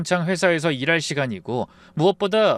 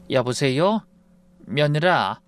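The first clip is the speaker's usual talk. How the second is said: trembling voice; slower than usual. Acted. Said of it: "목소리가 바르르 떨리며".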